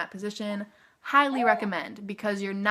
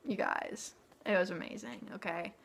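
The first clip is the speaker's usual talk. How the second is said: hushed awe; 8 dB quieter than usual. Real, not acted. Overwhelmed recalling holding baby.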